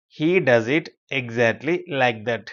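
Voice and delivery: very slow, pausing between word groups; chunked repeat. Shown as a demonstration. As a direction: break the sentence up for learners. Teacher repeats it slower, in chunks.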